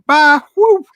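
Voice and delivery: high, loud whoop; gleeful gamer send-off; mock cheerful exit. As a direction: bounce off to play. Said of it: "he'll be like".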